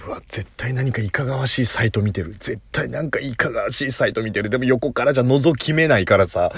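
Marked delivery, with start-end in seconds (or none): 0.1-4.5 hushed whisper, convinced and scandalised; whispered inner certainty; whispered suspicion. Retold or imitated. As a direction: whisper it like a secret. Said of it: "thought about neighbour's screen".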